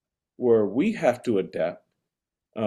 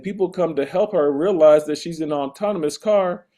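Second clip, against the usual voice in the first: escalating comedy rant; 2 semitones higher, 7 dB louder than usual. Real, not acted. Escalating rant about Waymo riders.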